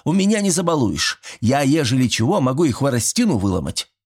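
mock stern. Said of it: "сурово заявил старик".

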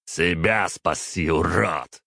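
slow scornful retort; sneering at the hero; contemptuous. Acted. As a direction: toss it off with disdain. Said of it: "с презрением бросил мне Батори".

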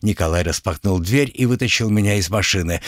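ordinary delivery

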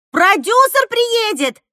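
high, loud, slow shriek-like cry; hysterical cry. Acted. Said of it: "кликушеским голосом".

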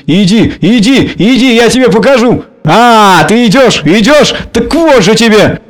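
high, raging threat; threatening. A narrator's reading. Varya chasing the clerk out, in a high raging yell. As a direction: swing the stick and yell it. Varya chases him with stick.

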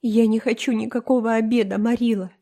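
put-on high, melodramatic tearful girl; tearful, tragic. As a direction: play the heartbroken martyr. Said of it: "сказала Энн рыдающим голосом". (Энн трагически, со слезами в голосе)

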